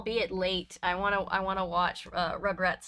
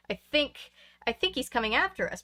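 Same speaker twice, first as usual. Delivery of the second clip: voice cracking; 3 semitones higher than usual. Acted. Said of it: "Brandon's voice cracked".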